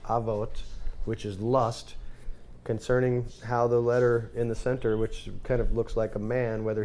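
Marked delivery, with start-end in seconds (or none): 0.0-0.5 avot said as two syllables with a V; alternative pronunciation. Shown as a demonstration. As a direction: say "avot", sounding the middle V. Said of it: "can also be pronounced".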